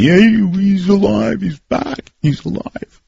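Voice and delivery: high, mock-excited listeners' voice; excited emailers. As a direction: imitate listeners excitedly spreading the news. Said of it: "everybody's been emailing me".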